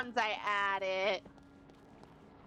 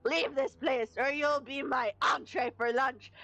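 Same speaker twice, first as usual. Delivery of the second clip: mock fierce wolf. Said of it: "talking like this".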